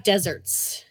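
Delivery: playful whisper. Acted. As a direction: whisper it like a secret. Joking whispered aside.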